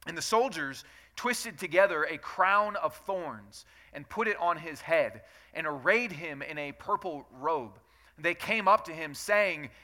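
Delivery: steady, measured Bible reading to the congregation; scripture reading. Acted. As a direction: read the passage aloud with care. Reads scripture aloud.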